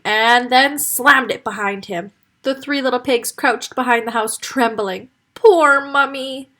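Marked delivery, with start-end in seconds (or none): 5.3-6.5 slow, high, whimpering; whining. Acted. Piglet whining for his lost mummy, sad. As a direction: whine like a sorry little piglet. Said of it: "whined Indy".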